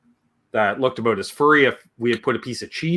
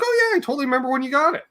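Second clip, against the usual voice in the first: fast, high sarcastic quip; mock sarcasm; 13 semitones higher, much faster than usual. Godfather mocking the father's denial, fast and high. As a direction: rattle off a teasing sarcastic line. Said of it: "He's like".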